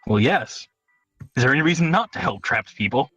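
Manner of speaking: normal talking voice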